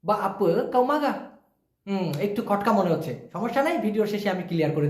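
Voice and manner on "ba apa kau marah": "Ba apa kau marah" said very slowly, each word apart; slow shortcut demo. Shown as a demonstration. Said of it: "শর্টকাটে হবে". (ধীরে ধীরে শর্টকাটে বলা)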